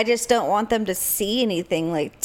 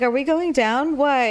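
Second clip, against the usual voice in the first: higher, rising nervous question; panicked question; 6 semitones higher than usual. Retold or imitated. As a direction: ask it in mock alarm. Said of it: "I'm like".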